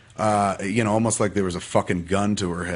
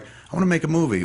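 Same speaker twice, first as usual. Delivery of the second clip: higher-pitched, lightly acted enthusiasm; eager dreamer; 8 semitones higher than usual. Dreamer announcing a new whim, lightly acted eagerness.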